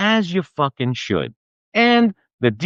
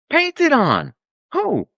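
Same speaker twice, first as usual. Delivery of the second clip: outraged; 10 semitones higher, much slower than usual. Acted. Outraged at fake outlet.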